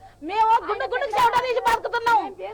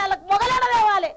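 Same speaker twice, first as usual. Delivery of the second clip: crying. Real, not acted. Widow pleads for her daughters.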